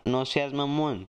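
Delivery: slow, drawn-out imitation of a Mexican accent; imitating a Mexican catchphrase accent, slowly; imitated Mexican accent. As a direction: lightly put on a Mexican accent, stretching the words. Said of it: "a mí me gusta imitar acento".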